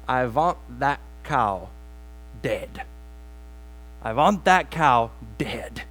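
put-on slow, heavy Russian accent with a V for W; a Russian peasant's grim wish, slowly. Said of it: "was it the accent that threw you off".

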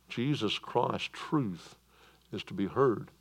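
slow, soft and calm, drawn out. Shown as a demonstration. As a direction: answer calmly, no raising of the voice. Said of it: "return with a calm voice that says".

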